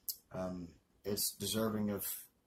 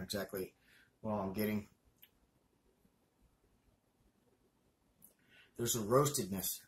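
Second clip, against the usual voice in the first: speaking around a cigar; cigar in mouth. Real, not acted. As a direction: lips closed on cigar. Seen 0: Raises cigar to lips at 1.5s; held there through end.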